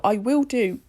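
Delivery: hiccuping mid-sentence; words cut by a hiccup. Real, not acted. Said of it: "I got hiccups then".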